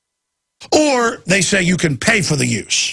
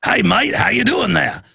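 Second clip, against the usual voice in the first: high, silly mock-Australian greeting; badly faked Australian ninny voice; ninny Australian accent; 6 semitones higher than usual. Shown as a demonstration. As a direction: attempt a ninny Aussie, pitched up. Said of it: "do a ninny Australia".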